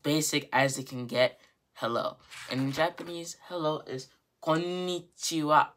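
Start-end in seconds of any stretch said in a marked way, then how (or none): 4.4-5.7 slow KONNICHIWA with a long, emphasized n; careful teacher's "konnichiwa", n held as its own beat. Shown as a demonstration. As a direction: lean on the n in "konnichiwa". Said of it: "have the emphasis on the n".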